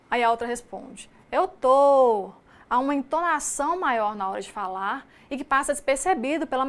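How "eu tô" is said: Eu tô. mais alto, cantado e alongado; fala cantada mineira. Shown as a demonstration. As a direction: responda cantando, sílabas esticadas. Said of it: "fala de uma forma cantada". (resposta cantada mineira)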